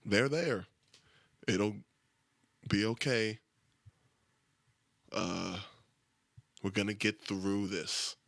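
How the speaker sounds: firmer, flatter comfort lines; awkward comforting. Retold or imitated. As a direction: pat them on the back and say it. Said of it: "I think that's one I use a lot".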